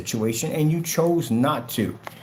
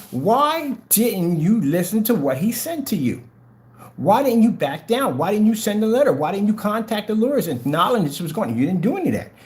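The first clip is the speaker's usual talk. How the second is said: imagined judge; 5 semitones higher than usual. Retold or imitated. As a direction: scold him the way a judge would from the bench. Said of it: "the judge is gonna sit there and say".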